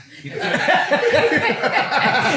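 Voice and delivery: high, burst-out laughter; big laugh. Real, not acted. Friend laughs about the player still feeling the hit, high laugh. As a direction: crack up over it.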